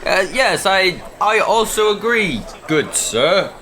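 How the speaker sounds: stiffly put-on gentlemanly agreement; slightly stilted, feigned politeness; weird formal talk. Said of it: "why are you talking weird".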